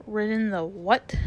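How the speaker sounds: scornful, incredulous question; contemptuous comeback; extreme contempt. A narrator's reading. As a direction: retort in disbelief with disdain. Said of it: "retorted the horse with extreme contempt".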